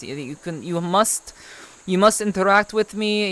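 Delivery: put-on Russian accent, measured and formal. Streamer telling chat interaction is not free, Russian accent. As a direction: lay on an approximate Russian accent. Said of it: "we'll say it is Russian accent".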